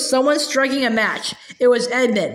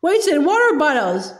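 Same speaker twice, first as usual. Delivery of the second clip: angry exclamation; 3 semitones higher than usual. Acted. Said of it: "Came an angry voice".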